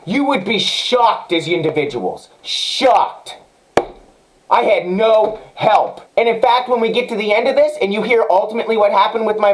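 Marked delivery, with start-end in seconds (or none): 2.4-3.4 a dramatic whispered punchline; whispered aside. Real, not acted. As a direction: breathe the word "Shocked." as a hushed whisper. Emphatic aside after rant.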